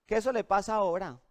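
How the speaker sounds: imitating a tranquil mother brushing it off; easygoing, mildly dismissive reassurance; unbothered calm. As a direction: wave it away calmly, as a patient mom would. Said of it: "ella está tranquila".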